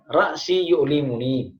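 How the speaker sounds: "Ra'si yu'limuni" said slowly, each word clear; slow Arabic demo. Shown as a demonstration. Teacher gives correct Arabic for headache, slow. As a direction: spell out "Ra'si yu'limuni" for learners. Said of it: "Sakit kepala misalkan".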